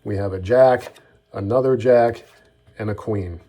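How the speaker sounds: brisk, at performance speed. Shown as a demonstration. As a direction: rattle it off like the real routine. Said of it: "Up to speed, that looks like this".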